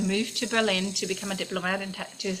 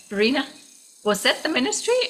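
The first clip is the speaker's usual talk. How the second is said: surprised coworker; 6 semitones higher, 3 dB louder, faster than usual. Retold or imitated. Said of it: "she's like".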